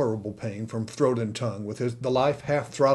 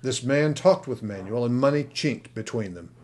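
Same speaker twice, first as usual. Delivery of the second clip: plain reading voice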